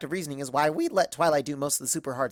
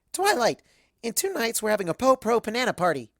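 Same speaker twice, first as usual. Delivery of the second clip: excited announcement; 4 semitones higher than usual. Acted. Pinkie excitedly announcing party.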